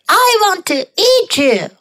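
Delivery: high character cry. A narrator's reading. Hungry pig threatens the gingerbread man, high-pitched cry. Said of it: "cried the pig".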